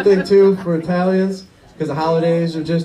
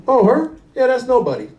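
dismissive dad voice; 7 semitones higher than usual. Retold or imitated.

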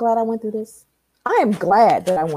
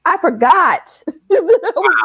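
laughing; 7 semitones higher, 5 dB louder than usual. Real, not acted. Laughs mid-story.

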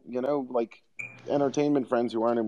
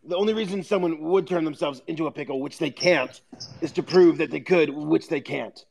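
higher, loose, rambling Rick voice; 5 semitones higher than usual. Retold or imitated. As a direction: slur it like a drunk scientist. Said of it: "Rick's like".

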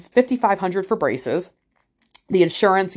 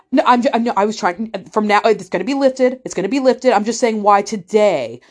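higher, stumbling imitation of a defensive man; retold flustered self-correction; flustered backpedalling; 3 semitones higher, 3 dB louder than usual. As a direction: trip over your words while backing down. Flustered doctor backpedalling in retold exchange.

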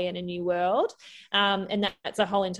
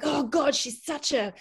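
mock venting; 4 semitones higher, slower than usual. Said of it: "I was venting".

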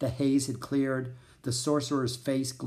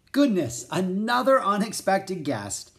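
higher, louder exclamation of pleased surprise; cheerful surprise; 7 semitones higher, 4 dB louder than usual. A narrator's reading. Amused host hears knocking at door.

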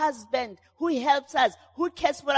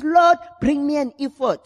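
crying out; 6 dB louder than usual. Retold or imitated. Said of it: "So he cries".

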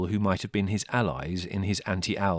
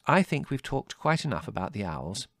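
higher, motherly closing of the subject; firm; 6 semitones higher, 4 dB louder than usual. A narrator's reading. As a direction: end the argument firmly. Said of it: "said Mother firmly".

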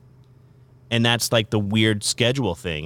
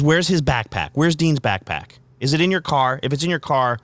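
imitating a worried wife, higher pitch; mildly frantic retold questions, pitched up; urgent questioning; 5 semitones higher than usual. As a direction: fire off worried questions as if quoting her. Retells wife's urgent backpack call.

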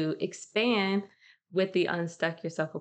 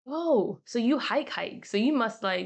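higher, teasing mock reaction to her hiking; mock surprised; 4 semitones higher than usual. Mocking how people react to hearing she hikes, higher pitch. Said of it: "and they're like".

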